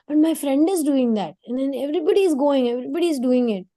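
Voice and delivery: put-on a child protesting to the parents; whiny child. Child telling the parents everybody does it, whiny and high. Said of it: "I would go and tell my parents".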